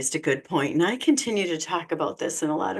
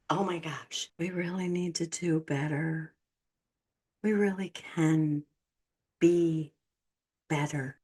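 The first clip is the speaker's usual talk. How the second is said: tired sigh; 3 semitones lower, 6 dB quieter than usual. Real, not acted. Dismayed plea after rant.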